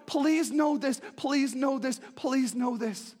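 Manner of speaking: pleading that winds down; fading plea. Acted.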